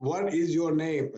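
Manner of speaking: slow, word-by-word question; mechanical. Retold or imitated. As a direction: ask it like a nervous novice teacher. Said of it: "It's very mechanical".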